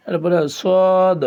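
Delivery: emphatic Arabic sad; rounded sad. Shown as a demonstration. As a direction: round the mouth on সদ. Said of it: "মুখটা একটু গোল".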